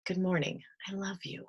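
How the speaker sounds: softly spoken loving affirmation; tender self-greeting. Shown as a demonstration. Showing listeners what to tell themselves on waking, tender. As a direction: let it drop soft and tender. Models tender morning words to oneself.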